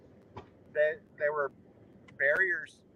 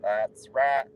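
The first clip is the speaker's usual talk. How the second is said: that's right in a Southern drawl; southern accent; 4 dB louder than usual. Shown as a demonstration. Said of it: "I'm doing my southern accent".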